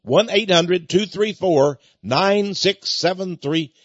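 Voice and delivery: slow, number by number; slow dictation. Shown as a demonstration. Host repeats the toll-free number for listeners, slowly. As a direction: spell it out slowly so listeners can write it down. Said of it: "Call us toll-free".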